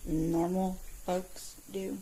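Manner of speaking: slow, sneering repeat of his words; mocking echo. Mom mocking the man's advice, slow sneering echo. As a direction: drag it out with contempt.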